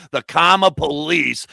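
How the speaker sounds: mock Boston accent with dropped R; terrible Boston accent. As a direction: put on a hammy Boston accent. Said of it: "with a terrible Boston accent".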